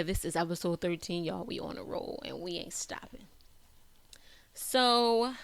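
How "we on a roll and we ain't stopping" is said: whispering. Real, not acted. Hype whispered aside.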